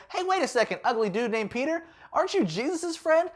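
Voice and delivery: put-on very high, squeaky child voice; a small girl pointing at Peter; little girl. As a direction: play a nosy little girl. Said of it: "this little girl comes up and she's like".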